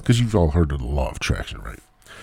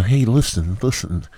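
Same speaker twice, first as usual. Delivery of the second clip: a faint, badly faked boxer voice; Mike Tyson impression; 4 semitones higher than usual. Host tries a poor boxer impression while rambling. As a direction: barely attempt a famous boxer. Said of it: "That was a terrible impression".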